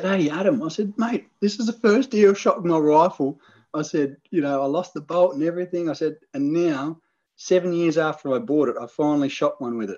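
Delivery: telling his mate with delight; excited retelling. Retold or imitated.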